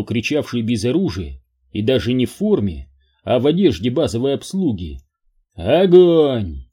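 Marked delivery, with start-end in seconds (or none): 5.5-6.6 barked order to fire; command. Acted. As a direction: give a sharp military command. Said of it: "скомандовал генерал Спирс".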